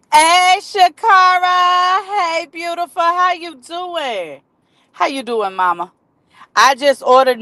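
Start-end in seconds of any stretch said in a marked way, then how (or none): 0.1-5.9 high, drawn-out sing-song hello; welcoming a viewer live, drawn-out and sing-song; sing-song greeting. Real, not acted. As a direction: stretch each greeting out brightly.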